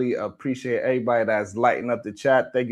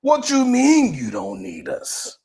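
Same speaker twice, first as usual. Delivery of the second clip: higher, whiny mock of offended men; mocking offended men online, higher whiny voice; mocking upset dudes; 8 semitones higher than usual. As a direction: mimic a sulky offended guy. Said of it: "dudes online reacting like".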